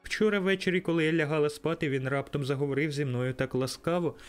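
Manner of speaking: a little sister bursting with joy; excited little girl. A narrator's reading. Little Fan greeting her brother, high and joyful. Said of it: "сяючи від щастя".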